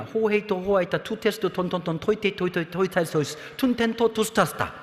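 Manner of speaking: rapid chant of article forms; rattling off Greek articles. Shown as a demonstration. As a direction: recite the declension like a memorized drill. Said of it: "정관사가 어떻게 보이냐". (암기한 주문처럼 줄줄 읊기)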